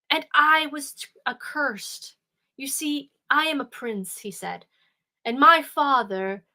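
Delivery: a hint of a sorrowful prince explaining his curse; lightly voiced prince. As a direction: tell it like a doomed prince, earnest.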